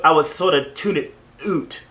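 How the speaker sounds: mock Canadian with "out" said as "oot"; badly faked Canadian accent. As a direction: put on a hammy Canadian accent, drawing out "out" as "oot". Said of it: "That was a bad Cana-, Canadian impression".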